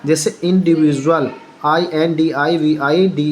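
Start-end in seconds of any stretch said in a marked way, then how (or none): 0.4-1.3 "इंडिविजुअल" with a j sound for the second D. Shown as a demonstration. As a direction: model "इंडिविजुअल", saying ju where du is spelt. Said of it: "जा ही उच्चारण होगा". ("इंडिविजुअल" में डी का उच्चारण ज)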